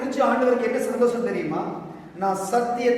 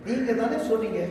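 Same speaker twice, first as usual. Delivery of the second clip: casual, softer plea to God as a friend; like talking to a friend; 4 dB quieter than usual. Shown as a demonstration. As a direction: talk to God like a close friend. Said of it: "நான் ஒரு friend மாதிரி பேசுறேன்". (நண்பனிடம் பேசுவது போல)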